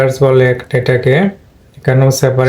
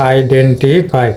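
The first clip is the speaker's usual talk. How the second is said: আইডেন্টিফাই drawn out with stress on আই; slow model word; slower than usual. Shown as a demonstration. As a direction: spell out আইডেন্টিফাই slowly, leaning on আই. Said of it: "আয়ের উপরে stress পড়েছে". (আইডেন্টিফাই ধীরে, আই-তে জোর)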